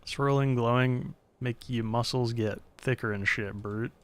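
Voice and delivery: lightly voiced gruff shopkeeper; a hint of a street dealer's brogue; shady potion seller. Voicing the potion seller NPC.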